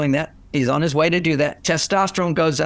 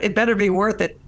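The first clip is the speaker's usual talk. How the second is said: "It better be worth it" asked with a raised, questioning lift, pitch higher; puzzled question; 4 semitones higher than usual. Shown as a demonstration. Quoting his grumble back, puzzled and asking. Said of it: "so what do you mean?".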